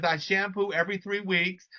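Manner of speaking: bad Jamaican accent. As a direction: quote an elderly mother in shaky-attempt Jamaican accent. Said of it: "really bad, um, Jamaican accent".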